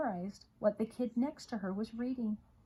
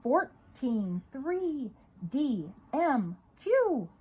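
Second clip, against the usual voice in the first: rapid loud call-outs rising high; shouted letters and numbers; 4 semitones higher, 5 dB louder, much slower than usual. Acted. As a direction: fire them off like a quiz. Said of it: "he shouted out".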